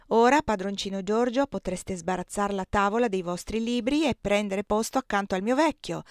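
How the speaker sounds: put-on proud old cook bragging about her cakes, lightly done; lightly voiced Aunt Clo. Zia Clo bustles about the table. (la zia Clo, voce di cuoca orgogliosa appena accennata)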